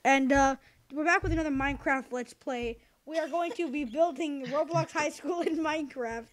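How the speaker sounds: put-on upbeat kid gamer intro; YouTuber intro voice.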